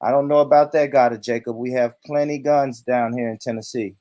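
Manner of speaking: mock threat from a would-be rich white man; Todd. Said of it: "transform myself into a rich white man".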